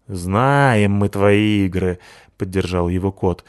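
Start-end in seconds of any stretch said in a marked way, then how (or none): 0.1-2.0 slow, firm; we know your tricks; wary refusal. Acted. Кот отказывает псу. (неспешно, с недоверием)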